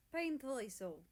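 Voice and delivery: soft. Acted. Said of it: "he says softly".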